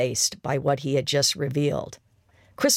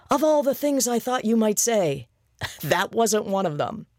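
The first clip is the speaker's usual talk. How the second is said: laughing disbelief; 7 semitones higher than usual. Acted. Laughing disbelief after reveal.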